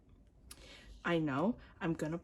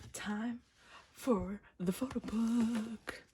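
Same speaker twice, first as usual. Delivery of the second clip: slow, higher build-up; drawn-out announcement; 4 semitones higher, much slower than usual. Real, not acted. Fan announcing the photo book to viewers, drawn out. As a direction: stretch it out in anticipation.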